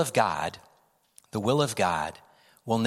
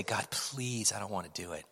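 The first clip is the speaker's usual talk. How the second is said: whiny whimper; 9 dB quieter than usual. Retold or imitated. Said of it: "you finally say".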